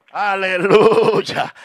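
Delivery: slow stretched aleluya; prolonged praise; drawn-out hallelujah. Real, not acted. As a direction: breathe it out in worship. Drawn-out worship.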